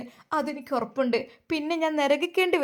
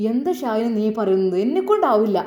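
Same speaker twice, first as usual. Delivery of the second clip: upset protest; 2 semitones lower, 6 dB louder than usual. Acted. Husband refuses, upset.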